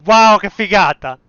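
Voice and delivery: loud, thrilled wow at the boss reveal; excited exclamation. Real, not acted. Streamer wowed by the boss intro, loud excited cry. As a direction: burst out in delight.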